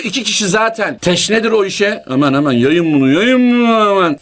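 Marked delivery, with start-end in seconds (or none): 2.1-3.1 eager urging. Retold or imitated. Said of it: "Fitne yapar". 3.1-4.2 eager urging, louder. Retold or imitated. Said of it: "Fitne yapar".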